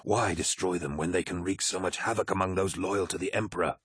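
restrained officer reasoning his case; measured Aximand. Acted. Aximand argues to spare the World Eaters, measured. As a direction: argue back without raising the voice.

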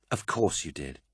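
soft, smiling reassurance; gentle smiling agreement. A narrator's reading. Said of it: "smiled Euphrates".

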